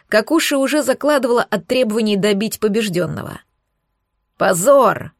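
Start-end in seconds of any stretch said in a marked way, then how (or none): 4.4-5.1 понарошку сердитый окрик, чуть громче; лёгкий намёк на орущего короля; мягко озвученный крик короля. Acted. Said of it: "орал король Кракен". (сдержанный озвученный крик короля)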